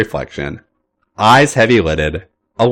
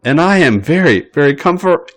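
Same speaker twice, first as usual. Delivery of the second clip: higher bratty insistence; 6 semitones higher than usual. A narrator's reading. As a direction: drag it out smugly. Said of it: "his brattiest mode".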